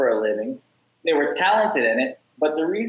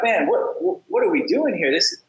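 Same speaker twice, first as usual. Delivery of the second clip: higher, slowing at the end, fed up; exasperated thought; 5 semitones higher than usual. Retold or imitated. Telling a podcast host his frustration at the debt cycle, in an exasperated voice. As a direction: ask what we're all doing here, fed up.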